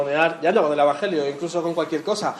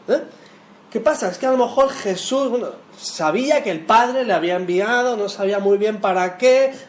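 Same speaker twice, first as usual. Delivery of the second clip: voicing an unsure Jesus; 3 semitones higher, 4 dB louder than usual. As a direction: play Jesus as comically clueless about his mission. Preacher voices a confused Jesus.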